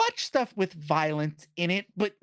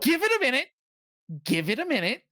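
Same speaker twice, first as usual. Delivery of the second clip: high-pitched, retold urging to hold on; exasperated parental plea; 7 semitones higher, faster than usual. Mother retells urging crying child to wait, exasperated. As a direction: plead in a raised pitch, mock exasperated.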